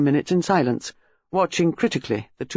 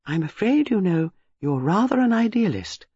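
gently; 6 semitones higher than usual. A narrator's reading. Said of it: "She said gently".

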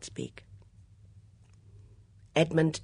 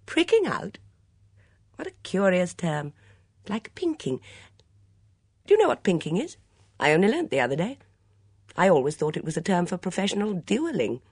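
higher, louder, playful suitor's chatter; bantering Edmund; 6 semitones higher, 6 dB louder than usual. Acted. Suitor puzzles over a gardener's term, bantering. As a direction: chatter with teasing curiosity.

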